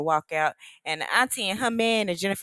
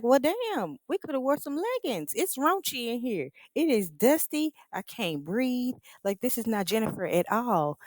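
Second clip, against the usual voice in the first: higher, whiny mock complaint; mocking the overdressed girls; 6 semitones higher than usual. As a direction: fuss like divas stuck somewhere dusty. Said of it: "They like".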